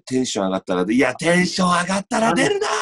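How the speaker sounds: mock comedy yell; shouted retort. Comedian snaps at partner, mock shouted retort. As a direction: bark the comeback like a manzai straight man. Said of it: "怒鳴り系いけるわ".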